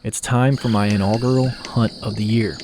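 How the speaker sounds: smooth dramatic outdoor-show voiceover; documentary narration. A narrator's reading.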